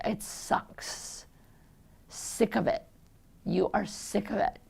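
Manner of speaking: hushed, half-whispered sympathy; quiet sympathy. Retold or imitated. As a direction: say it softly, like you understand. Telling a sick person the truth.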